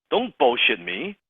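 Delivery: ordinary talk, nothing marked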